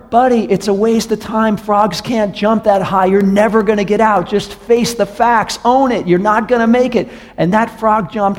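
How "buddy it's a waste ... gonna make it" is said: higher, yelled down into a ditch; mock yell from above. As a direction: frogs jeering down at a stuck frog. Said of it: "they kept yelling down more and more".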